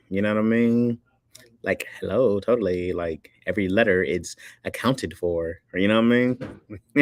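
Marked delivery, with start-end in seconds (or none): 1.6-2.9 lightly imitated Valley Girl talk; over-enunciate like a mock Valley Girl. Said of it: "over enunciates the Valley Girl talk". 2.9-5.6 "accounted for" slowed and crisply over-enunciated; mock Valley Girl precision on "every letter". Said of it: "over enunciates the Valley Girl talk".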